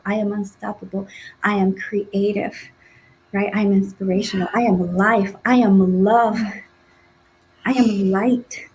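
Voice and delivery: spoken affirmations. Shown as a demonstration. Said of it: "more affirmations".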